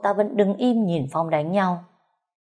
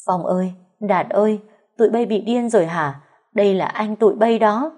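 loud, higher, frantic scolding; 3 semitones higher, 4 dB louder than usual. A narrator's reading. Mother scolding her sons for hitting their brother.

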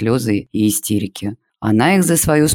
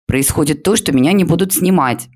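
high, loud shout; upset girl yelling at classmate; 6 semitones higher, 3 dB louder than usual. A narrator's reading. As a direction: yell it out in protest. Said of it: "закричала Полина".

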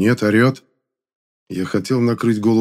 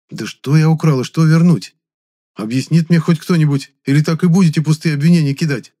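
loud, raised angry exclamation; exclaiming; 7 semitones higher, 5 dB louder than usual. A narrator's reading. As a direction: burst out indignantly. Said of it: "вскричал я".

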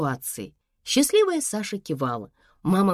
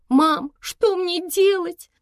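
high, slow, tearful plea; a scared girl sobbing down the phone; 12 semitones higher, 3 dB louder, slower than usual. Acted. Daughter sobbing to her mother at five in the morning, slow and high. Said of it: "рыдала она".

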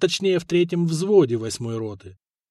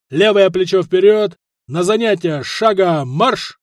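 stiff barking toy soldier; 3 semitones higher, 6 dB louder than usual. Acted. Sergeant commanding the march.

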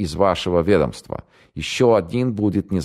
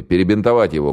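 louder order; крик; 4 semitones higher, 5 dB louder than usual. Acted. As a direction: shout the order. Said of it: "крикнул тогда Октябрьский". (майор кричит приказ)

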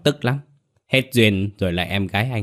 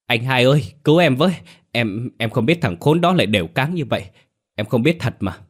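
tearful pleading; 4 semitones higher, faster than usual. Acted. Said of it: "khóc nức nở".

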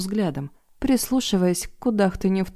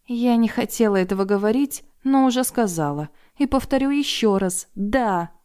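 furious bark; 4 semitones higher than usual. Acted. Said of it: "озверея рявкнула".

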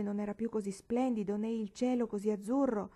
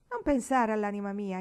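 louder, hot-headed retort; impetuous exclaim; 6 dB louder than usual. Acted. Marigold snapping back at Paola, a louder impetuous retort. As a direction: fire it straight back. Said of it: "esclamò impetuosamente Marigold".

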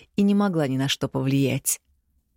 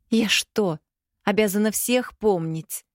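higher, hurt and sulky; mildly offended daughter, higher; offended drawl; 5 semitones higher than usual. Acted. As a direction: stretch it out, a touch hurt. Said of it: "обиженно протянула дочь".

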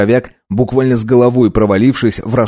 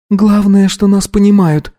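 excited; 10 semitones higher, 3 dB louder than usual. A narrator's reading. Anna speaks up.

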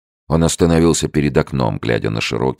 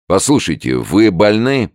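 fake kindly voice; 7 semitones higher, 5 dB louder than usual. A narrator's reading. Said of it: "деланно ласковым голосом".

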